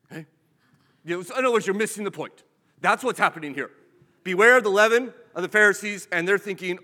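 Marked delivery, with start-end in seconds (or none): 4.2-6.1 loud warning. Acted. Preacher thundering Jesus' warning at the congregation. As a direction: boom the warning out, much louder.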